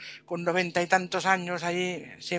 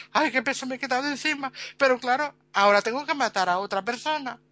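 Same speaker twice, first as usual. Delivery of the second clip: higher, fast relieved rush; relieved and fretting; 6 semitones higher than usual. Retold or imitated. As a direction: gush relief then worry. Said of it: "el Lord más contento". (alivio rápido, voz más aguda)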